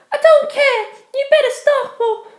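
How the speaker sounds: high, loud and cutting; angry dismissal. Acted. Penelope dismisses begging ex, high and cutting. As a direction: send him away in contempt.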